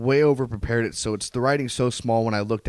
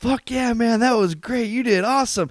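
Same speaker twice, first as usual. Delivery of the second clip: put-on drunk voice, much higher; 12 semitones higher, 4 dB louder than usual. Speaker retelling what his drunk coworker said after he got off stage, imitating a drunk coworker. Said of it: "he was shit-faced".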